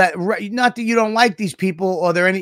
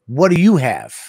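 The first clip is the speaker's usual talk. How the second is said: retold question, less forceful; tone-issue question; 2 semitones lower than usual. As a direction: ask it with a slight edge. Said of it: "it was tone issues".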